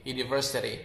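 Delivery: American flapped UNIVERSITY; American pronunciation. Shown as a demonstration. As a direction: say UNIVERSITY with R and "dee" ending. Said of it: "University is an American accent word".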